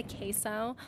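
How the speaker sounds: put-on queso slowly in a Spanish accent; show-off Spanish accent. Mock show-off asking for food, exaggerated Spanish accent. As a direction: lean into Spanish pronunciation on queso. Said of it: "I know how to pronounce things in Spanish".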